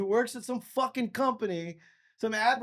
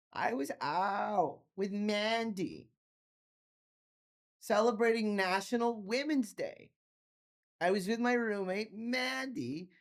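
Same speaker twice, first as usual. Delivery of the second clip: put-on slow, soft drunk girlfriend voice; a hint of tipsy slur; drunk slurring; 4 dB quieter than usual.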